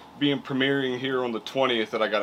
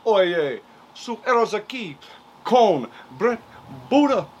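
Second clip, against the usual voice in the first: energetic host intro; 6 semitones higher, 3 dB louder than usual. Acted. Energetic show opener.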